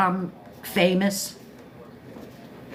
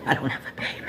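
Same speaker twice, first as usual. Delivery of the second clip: laughing; 5 dB quieter, much faster than usual. Real, not acted. Joking she's kidding about pain.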